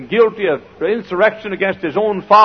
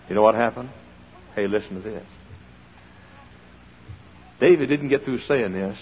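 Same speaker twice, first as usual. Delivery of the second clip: ordinary delivery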